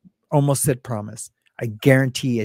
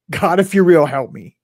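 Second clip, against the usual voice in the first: pleading; 4 semitones higher, 3 dB louder than usual. Retold or imitated. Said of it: "raises his arms up and just like".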